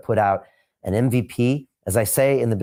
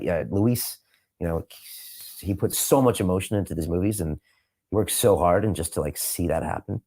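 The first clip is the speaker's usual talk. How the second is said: choked up; 2 semitones lower than usual. Real, not acted. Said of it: "made me stop crying right now".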